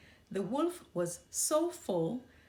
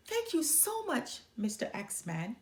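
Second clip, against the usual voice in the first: much higher, quick grateful granny voice; grateful old granny; 4 semitones higher than usual. Acted. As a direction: thank the man who saved you. Granny thanks the axeman.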